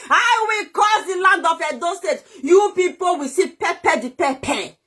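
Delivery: declaring a curse on Edo State, shouting; angry curse. Real, not acted. Ranting curse at Edo people.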